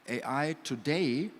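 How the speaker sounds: "today" drawn out slowly with emphasis; stress on today. Real, not acted. Panelist qualifying a claim about AI, stress on "today". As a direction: lean on "today", taking time over it. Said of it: "I'm emphasizing the word today".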